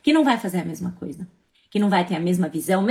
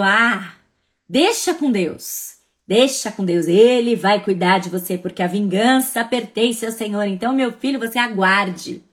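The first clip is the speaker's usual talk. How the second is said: unhinged villain; 4 dB louder than usual. Retold or imitated. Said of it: "aquela risada maligna".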